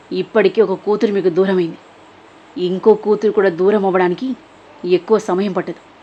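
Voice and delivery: lightly voiced threatening woman on the phone; a hint of cold menace, pushing the threat; menacing caller. Villain on the phone warning the parents, lightly menacing.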